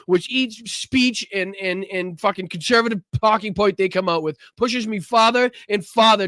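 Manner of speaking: heated, rising fury at the government; impassioned protest speech; angry rant. Real, not acted. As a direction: vent it like you're fed up for real. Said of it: "Sorry for the emotion".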